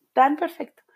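breathy whispered echo of tan perfecto. Acted. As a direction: whisper the words tan perfecto as a secret aside. Whispered echo of previous line.

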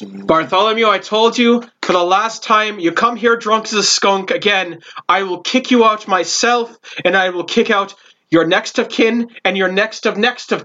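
lightly voiced stern barkeep; a hint of a scolding tavern woman; dwarvish barkeep. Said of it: "he's like".

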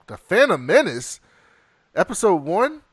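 title repeated with rising and falling emphasis; dawning recognition. Real, not acted. Host catching a bad film on the list, dawning recognition. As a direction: land on the title as it sinks in.

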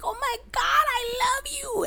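gushing back at the friends; high gushing voice. Retold or imitated. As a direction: gush it up high. Her excited reply quoted.

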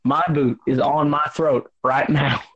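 mock Southern twang, throat being jiggled; throaty Southern accent. Friend joking about boot on throat, throaty Southern accent. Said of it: "pushing it up and down with my Adam's apple".

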